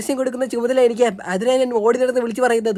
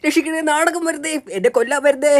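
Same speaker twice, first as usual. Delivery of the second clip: crying for help; 4 semitones higher than usual. Acted. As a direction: call out as if someone is after you. Acted cries for help in cartoon. (സഹായത്തിനായി നിലവിളിച്ച്)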